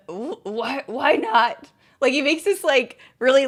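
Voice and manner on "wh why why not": squeaky dad voice. Retold or imitated. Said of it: "He makes this sound like".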